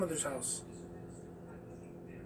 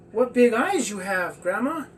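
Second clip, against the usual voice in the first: mild wonder; 3 semitones higher, 5 dB louder than usual. Acted. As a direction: marvel at grandma's eyes. Girl wonders at wolf grandma.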